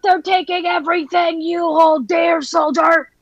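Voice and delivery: shouted drill sergeant order; shouting. Acted. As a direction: bark it at the soldier. Commander rallying soldier.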